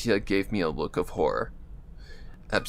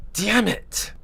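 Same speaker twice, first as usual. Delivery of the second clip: frustrated cursing; 11 semitones higher than usual. Acted. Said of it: "I cussed through my frustration".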